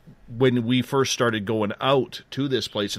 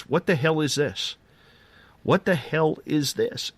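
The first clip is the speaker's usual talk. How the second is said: imitating a stunned buddy, higher pitched; retold bewilderment, voice lifted; baffled disbelief; 5 semitones higher than usual. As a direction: act out his dumbfounded reaction. Retelling buddy's baffled repeated reaction.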